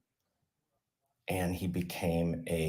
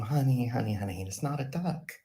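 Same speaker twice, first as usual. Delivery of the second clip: mock parent; 6 semitones higher than usual. Parents correct the child.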